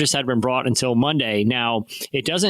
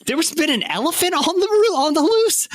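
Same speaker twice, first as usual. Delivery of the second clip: much higher, stunned squeak of disbelief; shocked disbelief. Retold or imitated. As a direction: gasp it out like the news floored you. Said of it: "And I was like".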